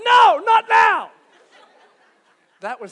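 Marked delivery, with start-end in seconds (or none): 0.1-1.1 high, loud, slow laughing no; laughing refusal. Retold or imitated. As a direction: brush off God with a laugh. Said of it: "To which I respond".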